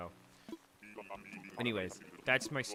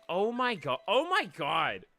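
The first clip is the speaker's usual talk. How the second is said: mock outrage; 2 semitones higher, 4 dB louder than usual. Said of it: "I was like".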